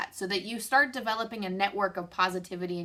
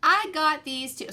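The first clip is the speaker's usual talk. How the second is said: laughing at herself, slower; kind gentle laugh; 8 semitones higher, 5 dB louder than usual. Real, not acted. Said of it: "I'm laughing at me".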